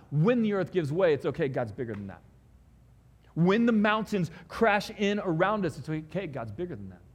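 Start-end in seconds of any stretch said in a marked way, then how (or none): 1.1-2.2 a calm it's okay after the climax; reassuring. Acted. Reassurance after building line. 5.8-7.0 gentle reassurance after the swell; reassuring. Acted. Reassurance after building line.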